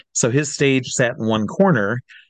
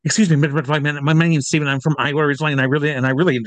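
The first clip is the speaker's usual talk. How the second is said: raised, eager fan voice rushing to introduce himself; bubbling nervously with hope; 4 semitones higher, much faster than usual. Retold or imitated. Young fan greeting his idol, voice eager and nervous. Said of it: "I went out to him and I said".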